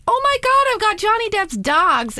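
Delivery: high, giddy fan gush; squealing with excitement over celebrity dogs; excited squeal. Retold or imitated. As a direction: gush like a starstruck groomer. Excited groomer quoted.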